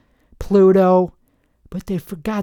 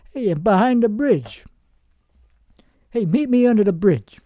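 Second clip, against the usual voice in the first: lightly voiced street dealer, pitched up; crack dealer; 3 semitones higher than usual. Dealer hailing a customer under a bridge, lightly put-on gangster voice. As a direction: call out a bit like a shady dealer. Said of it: "sounding like I'm dealing crack".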